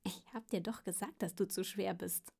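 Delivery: understated gloating earthworm. Acted. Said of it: "kicherte und sagte schadenfroh".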